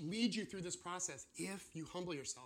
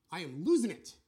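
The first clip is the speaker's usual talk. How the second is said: louder, more desperate repeat; louder distress; 10 dB louder than usual. Retold or imitated. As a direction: push it out louder in panic. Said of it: "Or they say".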